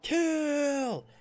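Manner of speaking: rising high shout, building on each kill; battle yell. Pretend. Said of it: "And you yell".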